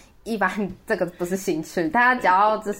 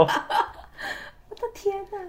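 disbelief; 12 semitones higher, 4 dB quieter, much faster than usual. Real, not acted. Reacting to braised pork date.

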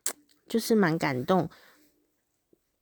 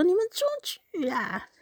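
retold yell; 13 semitones higher than usual. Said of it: "我说".

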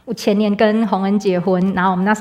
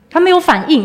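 higher and louder, in disbelief; incredulous exclamation; 8 semitones higher, 7 dB louder than usual. Real, not acted. Telling the church her husband just sat there, incredulous and louder. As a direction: blurt it out, amazed he is not moving. Husband unresponsive after crash.

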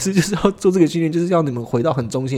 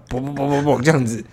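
imitated fart; 2 semitones lower than usual. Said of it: "放了一个屁".

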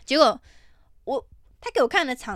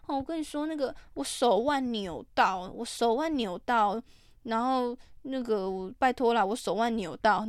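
imitating a whiny plea; slower than usual. Haggler pleads sprained wrist.

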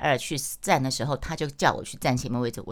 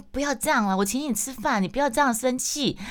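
higher, coaxing plea in a mock pleading voice; pleading sister; 9 semitones higher than usual. Gym sister begging her not to be angry, higher mock plea. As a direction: plead like a guilty friend trying to make up.

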